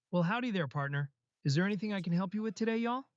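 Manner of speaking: lightly attempted Southern US accent; southern drawl. Shown as a demonstration. AI voice obliging the host's request, mild southern drawl. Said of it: "try to adopt a southern drawl".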